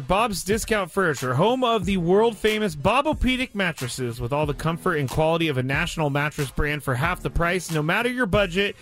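smooth radio ad read; sponsor read. Real, not acted. Host reads a furniture store sponsorship to listeners, ad read. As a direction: rattle off the sponsor copy evenly.

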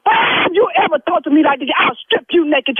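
angry scolding. Real, not acted. Church secretary threatens the rude caller, shouting. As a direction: threaten him like a furious church mother.

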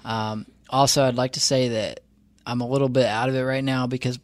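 talking with a numb mouth after the dentist; words slightly slurred from numbness. Real, not acted. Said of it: "the left side of my mouth is still numb".

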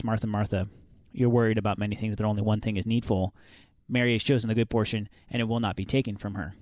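lightly voiced serene healer; hippie Christian voice. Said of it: "Is that your hippie Christian voice?".

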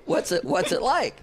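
laughing through a retold question; laughing quote. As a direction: ask it while giggling. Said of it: "I said".

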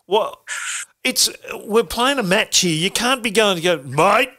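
teammate. Retold or imitated. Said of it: "they go".

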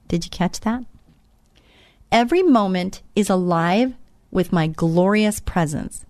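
devotional reading. Acted. Reading devotional text slowly aloud.

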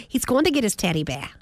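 "bear" with the final r dropped, like "beah"; non-rhotic "bear". Retold or imitated. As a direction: say "bear" as an open "beh", no r. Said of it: "but bear".

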